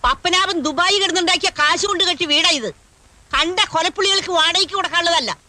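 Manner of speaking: indignant loud protest. Acted. Grandmother objecting to a murderer as tenant, indignant. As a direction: protest so the neighbours could hear. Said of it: "ഒന്ന് പതുക്കെ പറ".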